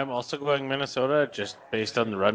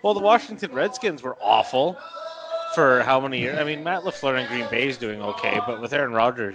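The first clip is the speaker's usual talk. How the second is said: angry rant. Real, not acted. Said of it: "there's my rant there".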